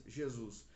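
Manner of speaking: Jesus with a zh start, zheh-ZOOS; Portuguese Jesus. Shown as a demonstration. Teacher giving the Portuguese example, Portuguese Jesus. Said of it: "em português".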